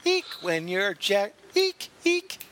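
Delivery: high squeaky dolphin eek; rubbery high squeaky toy. Retold or imitated. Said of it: "that was terrible".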